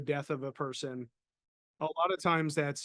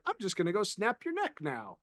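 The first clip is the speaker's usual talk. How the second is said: happy; 4 semitones higher than usual. Retold or imitated. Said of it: "I don't know why I said it so happy".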